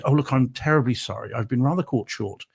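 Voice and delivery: politely apologetic posh English; posh English accent. Acted. Englishman politely begging a restaurant's restroom, posh English accent. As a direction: lay on mild, well-mannered English poshness. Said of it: "talk poshly in your English accent".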